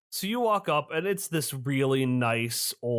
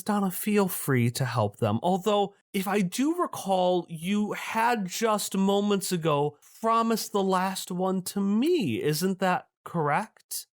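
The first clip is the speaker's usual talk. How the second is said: pitched up, syrupy and polite; sweetly corner her; higher honeyed villain; 4 semitones higher than usual. Acted. Pale man reminds Donna of her promise, higher and syrupy.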